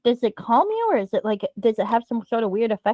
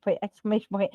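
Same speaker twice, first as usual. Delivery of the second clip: deadpan punctuation; 2 semitones lower, 4 dB quieter than usual. Pretend. Reads out punctuation after mock exclamation.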